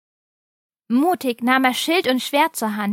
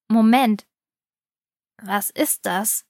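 surprised; slower than usual. A narrator's reading. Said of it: "fragte er sich laut".

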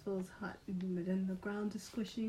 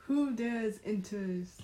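slow booming guardian voice; dopey cartoon bellow; much slower than usual. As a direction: boom it out slowly like a giant. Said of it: "a booming voice".

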